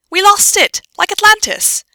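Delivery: very high, loud insistence; exasperated. Acted. Pansy repeating herself to a doubting Hermione, exasperated. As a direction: raise the voice and insist.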